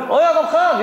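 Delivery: high, cheeky hail; mock obnoxious call. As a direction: imitate an irritating kid hailing an adult. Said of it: "벌써 얄밉잖아요". (얄밉게 부르는 아이 흉내)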